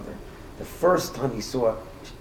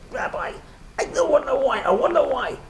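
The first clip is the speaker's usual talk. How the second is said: a much higher, louder, raging cry of grief; half crying, half screaming; 4 dB louder than usual. Retold or imitated. Grieving man bursts in at midnight, demanding of the rabbi, raging half sob. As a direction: demand it in anguish, close to tears and yelling. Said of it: "half crying, half screaming, in a rage".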